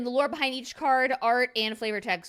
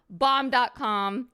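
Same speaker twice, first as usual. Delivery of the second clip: slow drawn-out praise; 2 semitones higher, 5 dB louder, much slower than usual. Acted. Gushing card praise.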